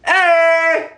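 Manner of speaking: high, held-out "hey" after a joke; drawn-out high whoop; joking cheer. Real, not acted. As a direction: celebrate your own zinger. Celebrates own pun.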